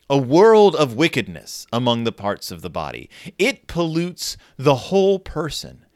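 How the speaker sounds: emphatic, declaimed Bible passage; scripture reading. A narrator's reading. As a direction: read it out with weighty, stretched key words. Reads Bible passage aloud.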